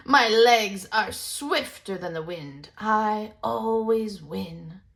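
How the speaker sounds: slow, puffed-up bragging; proud deer boasting. Acted. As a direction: savor every word of the boast.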